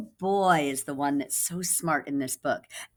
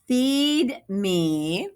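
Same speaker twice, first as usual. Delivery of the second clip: higher, louder monster plea; hungry thing; 6 semitones higher, 5 dB louder than usual. Acted. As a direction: beg loudly for more food.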